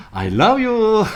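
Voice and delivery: very high, loud, cheerful I love you; reply sweetly, smiling through the anger; said laughing. Retold or imitated. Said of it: "그걸 웃으면서".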